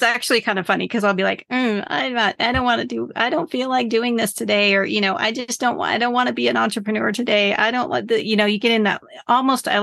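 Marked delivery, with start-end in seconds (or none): 1.5-4.7 a touch higher, whiny self-quote; mock temper tantrum. Sulking to herself about work, lightly whiny tantrum. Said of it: "temper tantrum as an adult". 5.2-8.2 mock temper tantrum. Sulking to herself about work, lightly whiny tantrum. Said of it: "temper tantrum as an adult".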